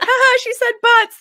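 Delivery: put-on high, laughing childish snicker; laughing at a silly word; giggly mock quote. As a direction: snicker it like a kid. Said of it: "I'm like".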